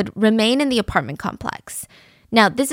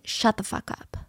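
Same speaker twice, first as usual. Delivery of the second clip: whispered snap; 7 dB quieter than usual. Retold or imitated. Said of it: "she's heard saying".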